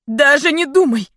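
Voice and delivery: loud, high desperate cry; shouted. A narrator's reading. Daughter screaming at her dying father. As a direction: scream it at him in despair. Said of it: "крикнула я".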